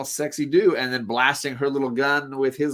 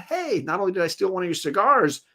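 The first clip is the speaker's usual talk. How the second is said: gloating villain; 3 semitones higher than usual. Acted. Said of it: "Arcade laughing and giggling".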